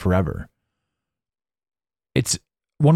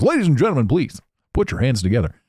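club MC hyping the crowd, lightly; a hint of a big-stage announcer; fighting game announcer; 3 semitones higher than usual. Shown as a demonstration. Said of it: "That's the strip club in me".

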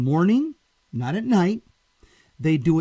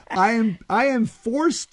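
devilish laughing; 7 semitones higher than usual. Acted. Devil speaks through the reader.

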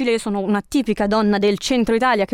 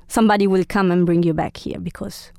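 whispering; 2 semitones lower than usual. Pretend. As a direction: breathe it like a secret. Whispered aside to guests.

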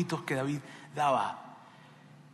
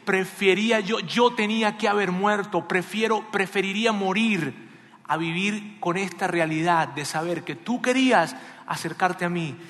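anguished lament; 3 semitones higher, 4 dB louder than usual. Acted. Father wishes he had died instead, anguished then fading. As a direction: start crying out, fade into resignation. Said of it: "lo que estaba diciendo David".

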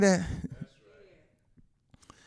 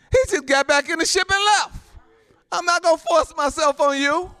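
high, insistent pulpit delivery; emphatic preaching; 11 semitones higher, 4 dB louder than usual. Real, not acted. Preacher tells how Jesus went back, emphatic preaching. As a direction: drive the point home to the congregation.

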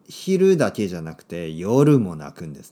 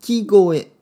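slow teaching word; 8 semitones higher, 8 dB louder, much slower than usual. Shown as a demonstration. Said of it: "泣く声のことを泣き声と言いますね。".

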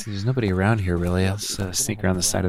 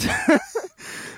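giggle. Real, not acted. Laughing at own accent.

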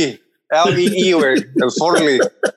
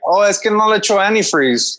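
snobby Chicano; 4 semitones higher than usual. Retold or imitated. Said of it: "like a snobby Chicano".

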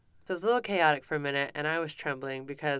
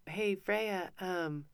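put-on higher, tentative asking of a child; coaxing; 4 semitones higher than usual. Mom to upset daughter up the treehouse, gently coaxing. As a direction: retell a parent feigning a need for help.

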